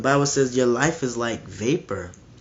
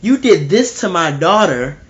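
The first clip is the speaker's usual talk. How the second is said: louder, higher furious parent shouting at the judge; outraged parent; 6 semitones higher, 8 dB louder than usual. Retold or imitated. Grieving father yelling at the judge, louder outrage. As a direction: yell it at the judge in disbelief. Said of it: "You would be like".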